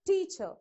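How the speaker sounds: TEAcher, strong first syllable, falling second; stress on first syllable. Shown as a demonstration. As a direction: model teacher with the weight on TEA. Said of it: "how do you pronounce teacher".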